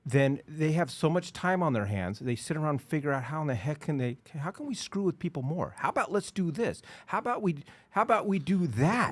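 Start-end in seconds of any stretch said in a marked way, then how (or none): 4.4-9.1 higher-pitched mock brainstorming; eagerly pitching ideas in a higher voice; scheming lawmakers. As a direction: act out bored lawmakers hatching plans.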